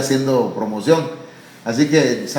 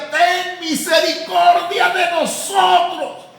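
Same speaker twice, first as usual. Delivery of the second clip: much higher, slow shouted plea; shouting plea; 13 semitones higher, slower than usual. Acted. Blind men crying out to Jesus on the road, shouting. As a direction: yell for mercy at full voice. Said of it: "iban gritando".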